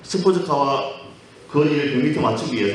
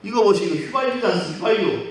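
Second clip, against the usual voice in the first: indignant protest; 5 semitones higher than usual. Acted. Patient protests in a joke.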